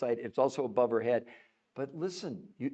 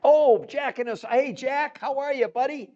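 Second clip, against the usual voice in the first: excited greeting; 13 semitones higher, 9 dB louder than usual. Real, not acted. Greeting a friend on livestream.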